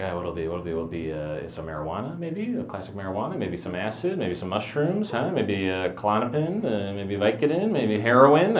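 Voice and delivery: musing aloud with rising questions; eager guessing. Acted. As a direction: run through hopeful guesses, pitch lifting at the ends. Acts out guessing the surprise drug.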